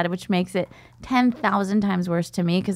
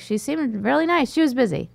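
mock dad voice; 5 semitones higher than usual. Dad quoted, high voice.

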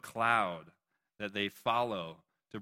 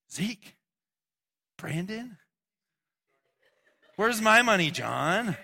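much higher, loud playful shout; calling out; 9 semitones higher, 7 dB louder, slower than usual. Real, not acted. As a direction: call across the room teasingly. Calling out to a student.

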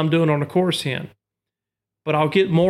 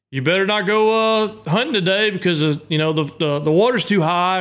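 grandpa warning; 3 semitones higher than usual. Retold or imitated. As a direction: scold like a grumpy grandpa. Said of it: "it's kinda like your grandpa".

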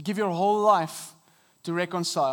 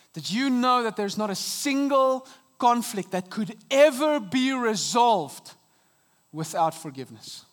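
rising appeal; 3 semitones higher, 4 dB louder than usual. Real, not acted. Preacher driving home point.

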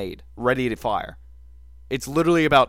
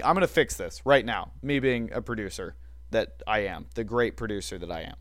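sarcastic; 2 semitones lower than usual. Acted. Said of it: "he said sarcastically".

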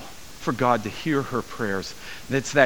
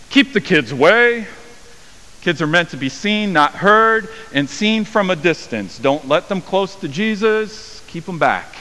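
stern rebuke; 4 semitones higher, 3 dB louder than usual. Acted. Disciples rebuking, voiced harshly.

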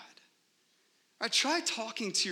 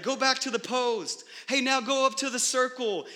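coach calling instructions; 8 semitones higher, 4 dB louder than usual. Retold or imitated. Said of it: "The coach is telling her, like".

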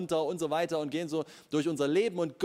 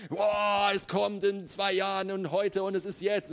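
put-on eager young believer; 3 semitones higher than usual. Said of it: "ein junger Typ oder eine junge Frau und sagt".

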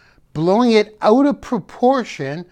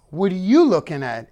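confrontational "What are you looking at?" with stress on you; wrong tonality; faster than usual. Shown as a demonstration. Demonstrating the wrong way to ask, confrontational. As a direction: snap it like picking a fight. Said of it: "Wrong tonality. ... Not".

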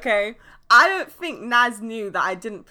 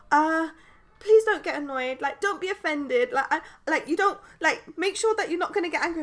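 higher, halting voice of an imitated pupil; hesitant student; 6 semitones higher than usual. Student begs teacher not to get annoyed, hesitant high voice. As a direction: mimic a student treading carefully. Student nervously prefacing a question.

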